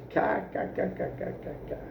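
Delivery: mock cackle. A narrator's reading. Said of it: "deu uma gargalhada".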